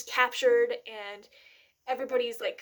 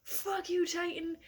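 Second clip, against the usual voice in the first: hushed, defiant whisper; 6 semitones higher, 5 dB quieter, slower than usual. Retold or imitated. Retelling Eren facing the Titan, a defiant whisper. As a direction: breathe it out like a dare. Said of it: "and he's like".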